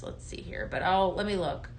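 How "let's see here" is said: unvoiced, much softer, lower aside; whispered to herself. Real, not acted. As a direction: say it under your breath while searching. Searching to herself on live.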